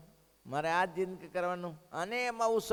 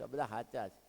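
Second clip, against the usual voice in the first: softer, lower, admitting it quietly; soft lowered confession; humble admission; 6 semitones lower, 6 dB quieter than usual. Retold or imitated. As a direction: say it quietly, almost to yourself. Woman confesses, repeating herself.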